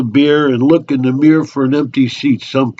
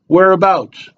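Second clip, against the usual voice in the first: nosy local, pitched up; chatty barfly; 8 semitones higher, 4 dB louder than usual. Acted. Local sizing up an unknown drinker at the bar, nosy and chatty. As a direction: probe like an over-friendly bar regular.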